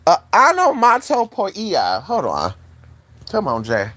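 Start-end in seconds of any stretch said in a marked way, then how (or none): 0.3-2.0 "onomatopoeia" slow, sounded out by syllable; careful attempt. Real, not acted. Trying once more at a hard word, careful "onomatopoeia". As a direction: sound out "onomatopoeia" slowly and higher. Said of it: "how to pronounce that word".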